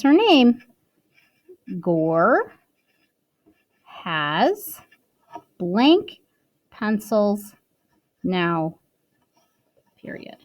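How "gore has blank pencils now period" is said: dictating. Shown as a demonstration. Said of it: "So you're gonna write".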